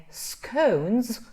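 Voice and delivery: scones first with long O, then with open short o; two vowel versions. Shown as a demonstration. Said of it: "you have to open more the mouth".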